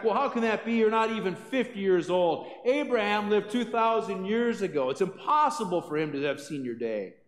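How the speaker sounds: a touch of a scoffing scribe; mock retort. A scribe firing back at Jesus, mild mock indignation. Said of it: "fires back".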